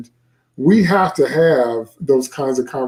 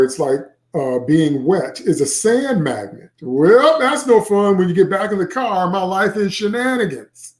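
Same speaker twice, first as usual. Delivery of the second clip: story reading. A narrator's reading. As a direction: read it as a chatty sixth grader telling his day. Author reads kid narrator aloud.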